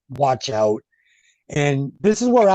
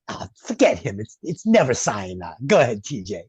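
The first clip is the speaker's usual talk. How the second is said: lower mock De Niro; 5 semitones lower than usual. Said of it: "He says".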